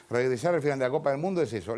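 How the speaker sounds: fast repeat that leads straight on. Retold or imitated. Host repeats the article's line, brisk run-through.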